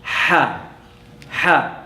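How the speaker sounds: soft voiceless "ha" pushed from the throat; breathy throat ha. Shown as a demonstration. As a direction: breathe "ha" out like a burning mouth. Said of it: "It becomes ha".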